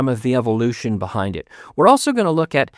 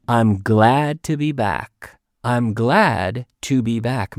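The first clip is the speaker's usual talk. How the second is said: slow model sentence; slower than usual. Shown as a demonstration. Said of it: "this structure, to be glad".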